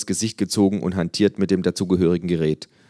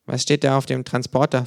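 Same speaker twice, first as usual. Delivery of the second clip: kangaroo voice; 8 semitones higher than usual. Acted. Känguru voiced by narrator.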